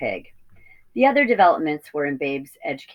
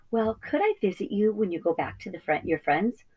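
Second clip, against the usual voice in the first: high and softer, hesitant piglet; shy little piglet; 4 semitones higher, 4 dB quieter than usual. Acted. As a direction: ask timidly like a young piglet. Babe asks to visit the flock.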